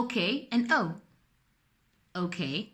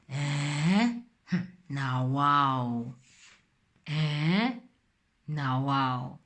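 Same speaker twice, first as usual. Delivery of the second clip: pidgin surprise; 6 semitones lower, much slower than usual. Shown as a demonstration. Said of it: "good example".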